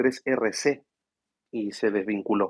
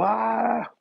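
excited cry; 11 semitones higher than usual. Real, not acted. Cheering while recalling World Cup.

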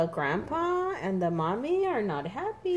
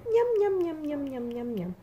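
yum fading; 3 semitones higher than usual. Acted. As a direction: begin bright, let it fade away.

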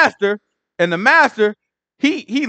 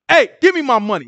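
mock angry demand; 4 semitones higher than usual. Servant repeats his demand, mock angry. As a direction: demand the cash, half-acted. Servant grabs fellow by throat.

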